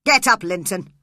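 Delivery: loud, angry bark of a father; angry shout. A narrator's reading. Heathcliff shouts at his son Linton, loud and angry. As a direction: snap the order at him. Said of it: "He shouted angrily".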